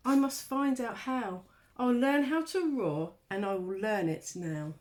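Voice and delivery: little mouse making up his mind; determined mouse. Acted.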